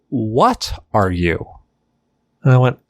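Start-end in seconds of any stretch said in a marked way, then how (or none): 0.1-1.5 slow, drawn-out question, falling at the end; imitated disbelief. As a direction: stretch out a mock-baffled question. Short guy sizing up tall stranger.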